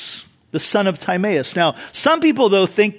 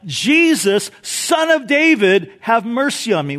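yelling out; 4 semitones higher than usual. Retold or imitated. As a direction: cry out for mercy over a crowd. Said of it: "starts to yell out".

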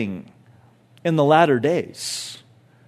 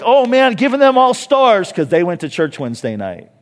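mock excited God; 3 semitones higher, 4 dB louder than usual. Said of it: "But God's not like".

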